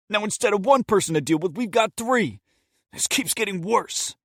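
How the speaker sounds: high, quick, exasperated complaint; a fast irritated outburst; fast angry rant. Acted. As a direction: rattle it off in frustration. Steven rants at his partner.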